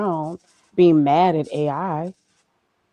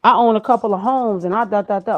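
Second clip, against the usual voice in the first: boastful artist; 5 semitones higher, 7 dB louder than usual. Retold or imitated. Artist boasting in retold dialogue.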